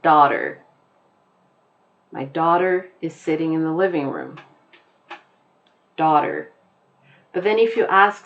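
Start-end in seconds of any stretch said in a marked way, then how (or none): 0.0-0.6 daughter in General American, r sounded; crisp American demo of daughter; American accent. Shown as a demonstration. Teacher repeats daughter for learners, American accent. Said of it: "the way that I'm saying it". 2.1-6.5 American daughter with a sounded r; plain General American demo sentence; American accent. Shown as a demonstration. Teacher models the word in a sentence, American accent. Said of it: "a person from the United States pronounces".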